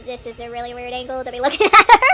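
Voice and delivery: breaking into real laughter mid-sentence; laughing. Real, not acted. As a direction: start plainly, then laugh through the end. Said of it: "I don't know why I'm laughing".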